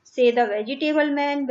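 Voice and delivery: put-on slow, clear reading to children; slow reading aloud. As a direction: read each word out slowly for the class. Teacher reading the text slowly.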